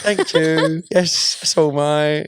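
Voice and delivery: put-on playful British accent; mock British accent. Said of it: "accidentally do a British accent".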